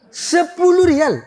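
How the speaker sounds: high, slow Arab trader voice; drawn-out merchant price. Acted. Arab seller slowly repeating the price to the pilgrim, high and drawn out. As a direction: stretch the price out like a haggling seller.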